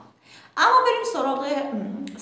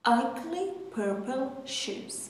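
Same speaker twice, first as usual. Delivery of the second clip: words drawn out, slow; slow repeat; 3 semitones higher, much slower than usual. Shown as a demonstration. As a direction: repeat slowly for learners. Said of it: "model sentence repeated". (تکرار آهسته)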